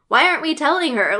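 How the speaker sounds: playful, hurried disbelief; baffled protest. Retold or imitated. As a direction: blurt it out as an incredulous question. Retelling her baffled first reaction.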